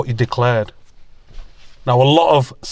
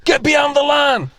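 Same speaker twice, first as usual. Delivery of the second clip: higher mock shopper calling out; imitated woman snapping; 11 semitones higher than usual. Imitating a woman in the shop ordering him back behind the line. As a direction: bark it like a woman guarding her spot. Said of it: "a woman goes".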